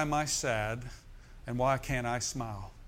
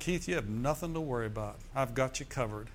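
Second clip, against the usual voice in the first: reassuring voice of God; 5 dB quieter than usual. Retold or imitated. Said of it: "That's how he said it to me".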